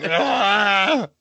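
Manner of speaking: imitated drawn-out dying groan; wordless wheeze of a collapsing old don; Vito Corleone. Friend teases the man in the wheelchair, imitated groan. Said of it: "you look like fucking Vito Corleone at the end of The Godfather".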